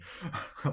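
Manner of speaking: quiet breathy private chuckle; chuckle to himself. Acted. Old raider chuckles to himself, knocked back. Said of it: "laughs to himself".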